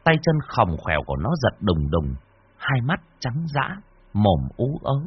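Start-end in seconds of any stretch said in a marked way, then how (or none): none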